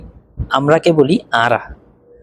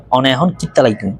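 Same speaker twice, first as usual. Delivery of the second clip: Chittagonian dialect. Shown as a demonstration. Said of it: "Chittagong ভাষায় বলতে হবে".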